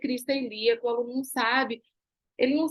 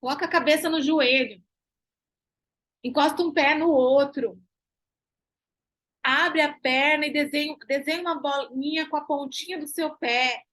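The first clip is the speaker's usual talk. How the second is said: clear plain cues. Shown as a demonstration. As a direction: coach the student in plain words. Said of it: "aquele comando verbal que o aluno te entende".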